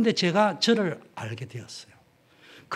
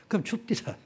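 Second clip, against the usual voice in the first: laughing; 4 semitones higher, 5 dB quieter than usual. Real, not acted. Laughing through the line.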